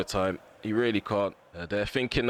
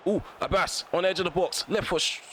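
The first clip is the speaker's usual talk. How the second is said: excited chance; 8 semitones higher than usual. Real, not acted. Sudden shot chance in commentary.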